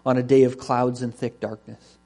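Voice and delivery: measured, solemn reading aloud; deliberate Bible reading to a congregation; scripture reading. Acted. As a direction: read it as God's declaration, leaning on key words.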